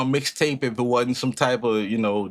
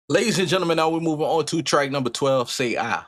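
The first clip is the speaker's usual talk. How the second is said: host announcer intro; 5 semitones higher than usual. Acted. Host greeting his viewers with a showman's announcer voice. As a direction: welcome the crowd like a showman.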